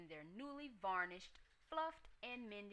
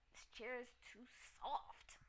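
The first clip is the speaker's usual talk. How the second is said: whiny; 5 semitones higher than usual. A narrator's reading. Goldilocks complains about soft chair.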